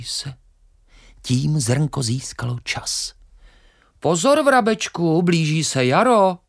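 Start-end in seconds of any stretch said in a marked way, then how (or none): 4.0-6.4 high, light voice of a little grain; small grain voice. Acted. Grain warns the hungry sparrow, high and pleading. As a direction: sing out a gentle warning as the grain.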